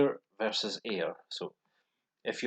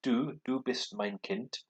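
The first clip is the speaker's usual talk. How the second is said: slow demo; 3 semitones higher than usual. Shown as a demonstration. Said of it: "use du".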